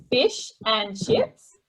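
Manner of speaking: Australian accent, FISH and CHIPS drawn out with short "i" vowels. Shown as a demonstration. Guest showing hosts how Australians say it, Australian accent. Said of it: "in Australia would say".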